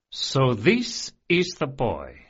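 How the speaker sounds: put-on slow, deep crime lord with a faint Varari accent; deep nasal Varari voice. A narrator's reading. Crime boss sizing up the boy, deep and nasal. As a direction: savour each word like a pleased boss. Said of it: "in a deep, slightly nasal voice with the pleasant hint of a Varari accent".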